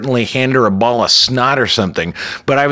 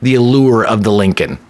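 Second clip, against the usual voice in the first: dressing down. Retold or imitated. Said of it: "like she was completely dressing her down".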